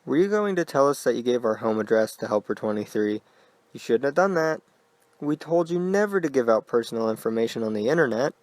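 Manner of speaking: unnatural falsetto. Acted. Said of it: "Her voice was an unnatural falsetto".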